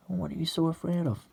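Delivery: high, loud taunting question; goading challenge. Acted. Woman goads man in acted quarrel.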